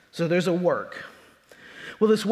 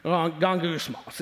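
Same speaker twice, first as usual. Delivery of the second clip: grumbling sound; 2 semitones lower, 3 dB quieter, slower than usual. Shown as a demonstration. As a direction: mutter gongusmos like a grumbling crowd. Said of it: "you know what it's like when people grumble".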